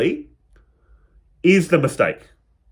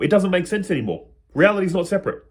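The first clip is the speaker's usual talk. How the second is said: breathless, winded delivery; out of breath. Real, not acted. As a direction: talk while out of breath. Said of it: "I'm out of breath".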